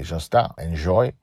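brief token French accent. Shown as a demonstration. Host shows the little French accent they allow themselves. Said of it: "French accent, I don't, except to say".

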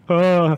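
mock bear roar, high and loud; hammed-up game bear growl. Bear cellmate greeting the new prisoner, mock roar. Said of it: "stock bear sound effect".

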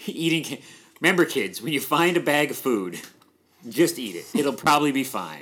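joking public service announcement voice; mock PSA. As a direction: lecture kids like a fake safety ad. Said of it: "mock PSA to kids".

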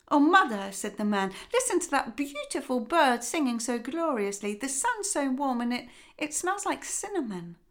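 the father beaming with delight; lightly voiced joyful father.

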